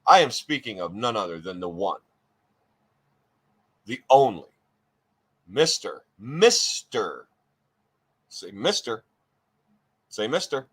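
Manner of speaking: stately announcer build-up with long pauses; grand introduction. Acted. Host teasing out the guest's name, grand introduction. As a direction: draw out each title for suspense.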